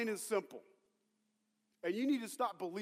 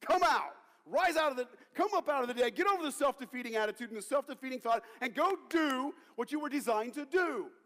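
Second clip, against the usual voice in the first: loud, high, forceful order; commanding; 5 semitones higher, 5 dB louder than usual. Acted. Jesus calling the boy out of the box, commanding. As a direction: command the dead to rise, full force. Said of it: "He said".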